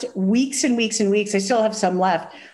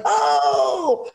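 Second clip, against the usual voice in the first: put-on kids' surprise; 5 semitones higher than usual. Daughters hearing the assistant swear, shocked mock shout. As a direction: react like scandalized kids. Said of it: "And they're like".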